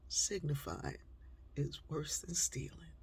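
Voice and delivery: soft, whispered saying; hushed memory. Real, not acted. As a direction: let it fade to a whisper. Echoing mother's words softly.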